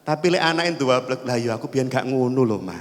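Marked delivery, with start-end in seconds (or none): 1.2-2.8 low, understated husbandly disclaimer; lightly voiced father. Father disowns child's fault to wife, lightly voiced denial. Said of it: "bapake ngomong".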